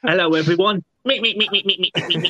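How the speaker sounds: mocking squeaky run of "meet"; hammed-up pinched accent impression; Dox. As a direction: tease a friend's accent, ending in rapid little squeaks. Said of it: "if you want to do Dox's accent".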